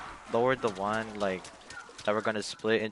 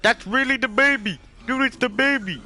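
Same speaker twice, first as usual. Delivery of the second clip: excited shout; 11 semitones higher, 6 dB louder than usual. Real, not acted. Hype over the baby bit.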